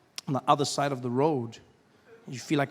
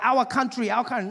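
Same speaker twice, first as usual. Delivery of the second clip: raised, insistent mock Asian accent; higher-pitched Asian salesman's accent; 7 semitones higher than usual. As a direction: lecture the customer in an imitated Asian accent. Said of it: "there's this Asian gentleman helping me".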